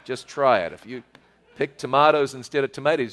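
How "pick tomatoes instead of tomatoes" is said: "tomatoes" first as tuh-MAH-tohz, then as tuh-MAY-tohz; playful Kiwi versus American "tomatoes"; two pronunciations. Shown as a demonstration. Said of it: "my accent".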